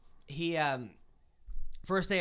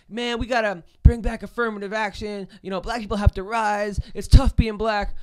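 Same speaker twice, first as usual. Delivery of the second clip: louder, hammed-up host pleading, slowing at the end; mock Esau rant; 3 semitones higher, 7 dB louder than usual. Comic retells the host introducing him, hammed-up and louder. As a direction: lay it on thick like a preachy emcee. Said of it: "Esau's like".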